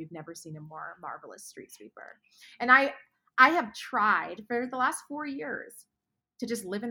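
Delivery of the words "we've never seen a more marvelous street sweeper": hushed, softer whisper of wonder; softly whispered admiration; awed whisper. Retold or imitated. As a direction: whisper it like heaven is marveling. Heaven marvels at street sweeper.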